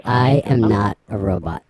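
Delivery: loud, robotic alien voice-changer. Pretend. Prankster denying being a robot, alien voice. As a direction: declare it through an alien voice mod. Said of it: "Is that the alien voice?".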